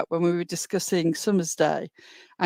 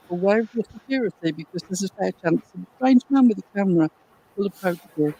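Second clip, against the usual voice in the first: audio cutting in and out; choppy broken-up connection; corrupted glitchy audio; faster than usual. Real, not acted. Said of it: "Your audio is cutting out".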